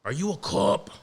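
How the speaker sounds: lightly done tough-guy cop accusation; Departed cop impression. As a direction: mimic the scumbag cop from the film intro. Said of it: "with the accent of that fucking scumbag in the intro, the cop".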